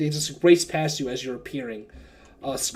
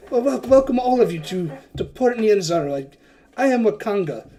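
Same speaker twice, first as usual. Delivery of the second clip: higher, louder grand welcome; welcoming host; 5 semitones higher, 4 dB louder than usual. Acted. Wakanga welcomes the party to Port Nyanzaru, grandly. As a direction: announce yourself to the guests. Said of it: "He's like".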